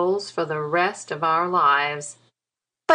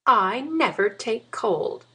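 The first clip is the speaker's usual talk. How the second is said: chattering teeth; 7 semitones higher than usual. Acted. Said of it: "answered Lucinda with chattering teeth".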